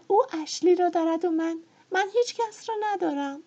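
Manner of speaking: jealous of Melanie, ending in sobs; bitter thought to tears. A narrator's reading. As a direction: build from resentment to breaking down. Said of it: "فکر کرد".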